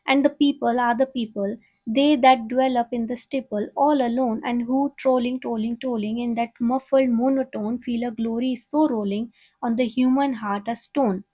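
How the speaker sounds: slow, measured poetry reading; poem recital. Acted. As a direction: read each line out slowly like a recital. Reads poem aloud slowly. (धीमी, नपी-तुली कविता पाठ)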